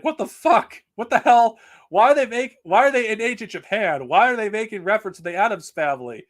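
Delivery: high, loud acted bafflement; incredulous outburst. Baffled viewer questioning out-of-place jokes, loud incredulous outburst. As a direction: demand answers in mock disbelief.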